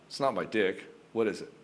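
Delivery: low, steady, unbothered; calm and certain. Shown as a demonstration. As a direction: calmly ask what's really wrong. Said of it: "with a calm certainty and power".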